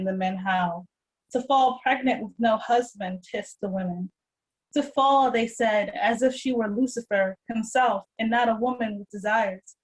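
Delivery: measured, deliberate poem recital; poetry reading. Acted. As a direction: read it as spoken-word poetry, each phrase set apart. Reads own poem aloud.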